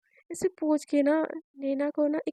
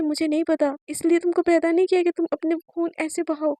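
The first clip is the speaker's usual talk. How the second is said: louder furious mother's rant; angry mother; 5 dB louder than usual. Acted. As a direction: threaten whoever hurt her child. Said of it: "बहुत ज़्यादा गुस्सा करने लगती है". (गुस्से में माँ, ज़ोर से धमकाती हुई)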